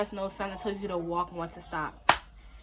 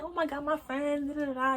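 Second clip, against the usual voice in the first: hyped; 5 semitones higher than usual. Retold or imitated. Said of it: "I'm hyped".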